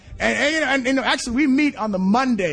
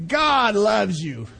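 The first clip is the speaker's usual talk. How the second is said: gentle slow assurance; much slower than usual. Real, not acted. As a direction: let it land gently. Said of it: "repeat softer, slow".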